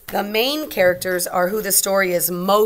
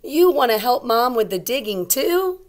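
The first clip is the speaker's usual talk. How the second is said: bright, louder read-aloud voice; story reading; 6 semitones higher, 6 dB louder than usual. Acted. Teacher reading the book, voicing the mom brightly. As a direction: read it out to the class. Reads mom's line in story.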